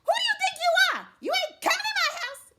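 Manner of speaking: high, very loud screaming rant; furious wife. Acted. Woman scolding Man at the door, furious high scream. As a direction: shriek at him, fast and outraged. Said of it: "Didn't you hear that tone?".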